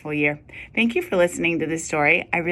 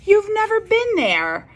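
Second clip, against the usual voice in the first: chuckling father; 13 semitones higher, 4 dB louder than usual. Acted. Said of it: "Mister Hartwell chuckled".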